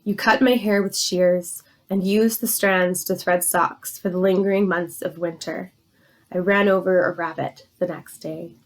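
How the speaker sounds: measured, even poem recital; poetry reading. Acted. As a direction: read your poem aloud, line by line, with falling endings. Reads long elegy aloud.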